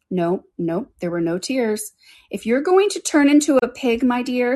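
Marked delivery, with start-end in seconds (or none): 2.3-4.6 higher, firmer mock scolding; serious. A narrator's reading. Alice warns the baby turning into a pig, serious. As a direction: lay down a mildly stern warning. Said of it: "said Alice seriously".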